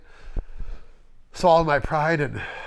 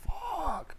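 shocked curse; 8 dB quieter than usual. Retold or imitated. Boss shocked by theft.

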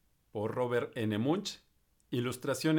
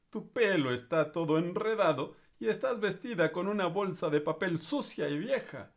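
snooty prince; 4 semitones higher than usual. Acted. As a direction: look down on her mess. Príncipe critica a Elizabeth. (príncipe altanero y despectivo)

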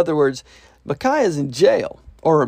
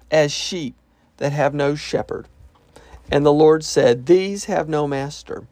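serious. Acted. Prophet finally tells the king the truth, seriously. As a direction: drop the sarcasm and speak the hard truth. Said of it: "now he's getting serious".

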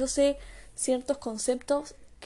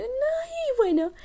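very high, slow, drawn-out "No, y bueno"; my signature expression; much slower than usual. Shown as a demonstration. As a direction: stretch "No, y bueno" up into a squeaky high sigh. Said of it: "digo, esa es mi expresión".

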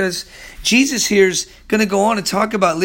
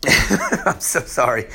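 laughing apology; 4 semitones lower, slower than usual. Real, not acted. Still apologising to viewers, chuckling sheepishly.

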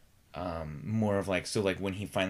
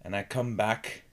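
slower cadence; 4 semitones higher, 5 dB louder than usual. Shown as a demonstration. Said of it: "a lower, a slower and broken".

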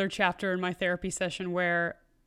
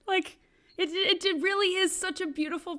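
laughing; 8 semitones higher, 6 dB louder than usual. Retold or imitated. Imitating the carefree motto, laughing.

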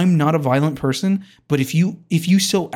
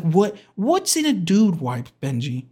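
lightly imitated wife, pitched up; wife impersonation; 3 semitones higher than usual. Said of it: "that's a horrible impersonation of my wife".

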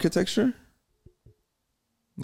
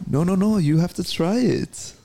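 seductive voice; 6 semitones higher than usual. Acted. Mock seductive coaxing.

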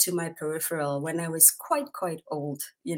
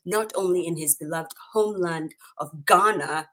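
ordinary talk

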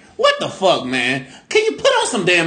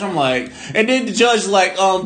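ordinary delivery

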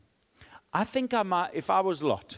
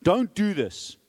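raised, pressing plea; urgent plea; 4 semitones higher, 3 dB louder, slower than usual. Acted. Lot pleading with the mob at his door, raised and urgent. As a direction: push the plea out to the crowd. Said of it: "He's pleading with them".

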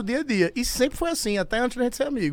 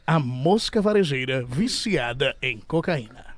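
booming stage introduction; 6 semitones lower than usual. Acted. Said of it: "Senhoras e senhores, com vocês".

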